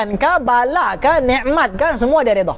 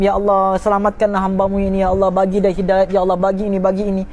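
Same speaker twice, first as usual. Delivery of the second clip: imitated tearful prayer; 5 semitones lower than usual. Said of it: "Doa dia nangis".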